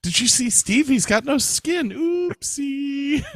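very high squeaky hammed-up voice; mock innocent gossip. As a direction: chirp it out like a giddy gossip. Continues mock killer joke.

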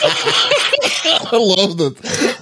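drawn out through laughter; laughing. Real, not acted. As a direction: say it while cracking up. Laughing at comment.

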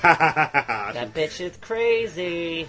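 very slow, lispy and laughing; lisp. Shown as a demonstration. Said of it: "in a lispy voice".

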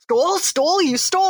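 high, rising disbelief, repeating stole; incredulous detective. Retold or imitated. Host mimics the detective's shocked repeats. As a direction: squeak out the disbelief. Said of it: "he's being like".

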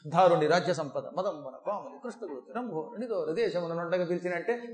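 mildly hammed-up dull recital; mock bad recitation. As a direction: parody of an inept verse reciter. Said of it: "ఒక్కొక్కడు పురాణంలో పద్యం చదువుతాడు".

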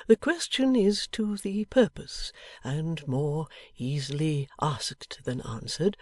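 put-on slow, measured old man's voice; lightly voiced old man, hesitant; gentle old man, pondering. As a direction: answer slowly and thoughtfully. Plays Riah in story.

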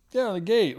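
high, loud and insistent; imitated yell. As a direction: call it out like a retold demand. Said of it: "yells at this Chinese lady".

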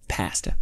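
PASTA with the flat 'a' of 'cat', in solidarity; short-a pasta. Shown as a demonstration. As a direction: say pasta as PASS-tuh. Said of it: "I'll call it pasta for this episode too".

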